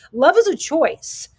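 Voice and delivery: slow and loud, high stress on is; slow emphatic. Real, not acted. Reading her journal line to viewers, slow and stressed. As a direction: draw out Love is a choice, leaning on is.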